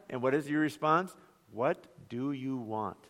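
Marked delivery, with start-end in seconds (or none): 1.5-3.0 exasperated parent. Pretend. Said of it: "talked to their baby that way".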